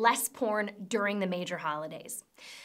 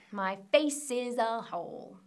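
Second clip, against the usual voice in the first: bad French accent; 3 dB quieter than usual. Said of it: "My French accent is terrible".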